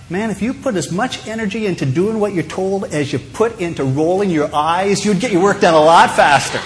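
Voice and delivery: lightly voiced fed-up parent scolding a child; mild mock telling-off from a parent; exasperated parent. Parent to eye-rolling child about doing what they're told, mildly exasperated. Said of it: "feel like saying to your child".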